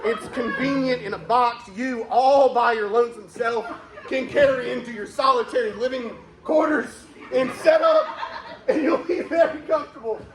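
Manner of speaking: mock podcast ad read. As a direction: sell the mattress with a straight face. Sponsor read mid sad story.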